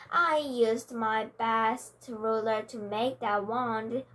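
mild whimper. Acted. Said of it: "whimpered the witch".

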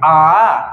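आ drawn out, held about twice as long as अ. Shown as a demonstration. Teacher showing students the long vowel. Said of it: "आ यानी अधिक समय लगता है".

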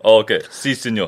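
attempted Mexican accent; Spanish-speaker impression with a Mexican lilt. Shown as a demonstration. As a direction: put on a playful Mexican accent. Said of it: "Mexican at that time".

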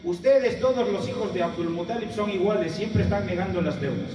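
imitated loud, high-pitched reproach; provoking accusation. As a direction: accuse them to stir up anger. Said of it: "para incrementar en él el, el enojo". (reproche provocador)

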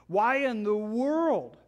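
preacher urges his flock not to return to rules; emphatic preaching. Real, not acted. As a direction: plead with the church at full force. Preacher exhorts congregation.

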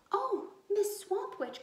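high, loud, slow mock-frightened cry. A narrator's reading. Girl cries out to the swamp witch in fake terror. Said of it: "cried Liza Lou".

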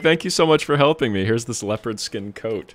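high, loud grateful gushing; grateful girl voice. Retold or imitated. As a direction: gush thanks like a rescued girl. Friend quoting the grateful girl.

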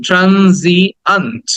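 ট্রানজিয়েন্ট slowly as "tran-zi-ant"; syllable breakdown. Shown as a demonstration. Teacher models the last word, slow breakdown. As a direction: separate each syllable of ট্রানজিয়েন্ট. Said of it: "আ আছে".

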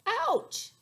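high, loud ouch; a hint of a poked bear; yelp. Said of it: "mumbles Bruce".

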